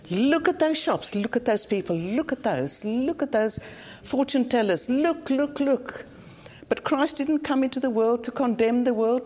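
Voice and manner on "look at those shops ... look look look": mock busybody pointing out the shops; mock finger-pointing. Preacher mimicking Christians pointing fingers at fortune tellers, mock-disapproving. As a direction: point them out, pitch jumping up on some looks.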